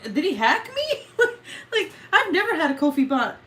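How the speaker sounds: high loud panicked laughing; alarmed and laughing. Real, not acted. Startled by a Ko-fi bot donation, loud laughing panic. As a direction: freak out, half crying with laughter.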